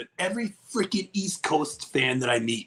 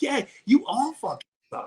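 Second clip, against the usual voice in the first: mock high retort; 12 semitones higher than usual. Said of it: "it's like".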